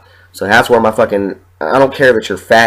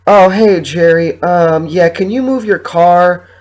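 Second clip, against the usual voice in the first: much higher, sing-song mock landlord; landlord on the phone; 8 semitones higher, slower than usual. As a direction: mimic her sweet phone voice, pitched way up.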